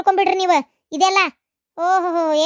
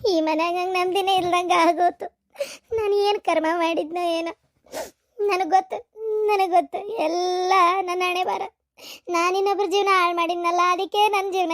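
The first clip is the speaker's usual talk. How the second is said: tearful lament. Acted. Wife weeps over her troubles. (ಅಳುತ್ತಾ ನೊಂದು ಹೇಳುವ ಧ್ವನಿ)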